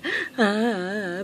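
soft pretend wail, falling; short play-cry without words; mock sobbing. Girl still crying for help, soft mock sob. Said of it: "khóc hoài à".

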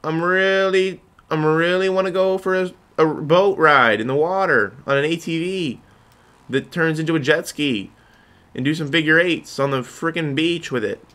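hammed-up eager pitch. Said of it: "And then you're like".

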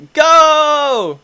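high loud go; excited shout. Real, not acted. Player launching his run, high excited shout. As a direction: yell it to launch.

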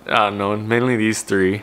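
talking while showing teeth; finger pulling lip down. Real, not acted. Seen 2: Finger pulls lower lip down to show braces, frames 0.1–1.3.

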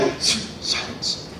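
hushed, voiceless and slow; mock-shocked hush; stunned silence. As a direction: drop to a slow near-whisper. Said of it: "We were all shocked".

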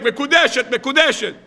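mock rabbi shout. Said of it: "והרב צועק".

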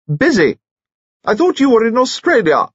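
put-on high, brusque old lady; loud eccentric dowager. Eccentric dowager answers old friend, loud and brusque. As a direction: fire it off loudly in a high voice.

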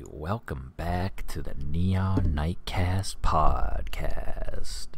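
slow, low late-night DJ voice; smooth radio host intro. Pretend. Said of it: "This is my new radio voice".

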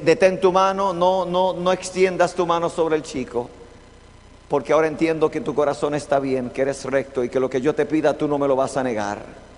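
ángel solemne, más grave y suave; voz del ángel. Acted. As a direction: habla como el ángel que detiene la mano. Angel voiced stopping Abraham. (el ángel de Jehová le habla a Abraham, grave y solemne)

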